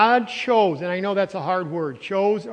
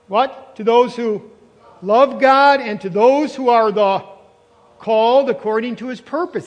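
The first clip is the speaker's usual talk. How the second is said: emphatic loud reading; 5 dB louder than usual. Real, not acted. Preacher to congregation, reading Romans with loud fervor. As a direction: proclaim the verse with rising force.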